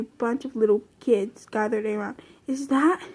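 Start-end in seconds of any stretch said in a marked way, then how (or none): 2.5-3.0 whisper. A narrator's reading. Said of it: "whispered disbelief at the stage".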